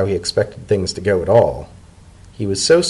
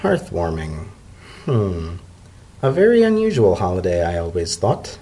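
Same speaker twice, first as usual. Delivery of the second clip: unusually mild; 4 semitones lower than usual. A narrator's reading. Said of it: "her tone unusually mild".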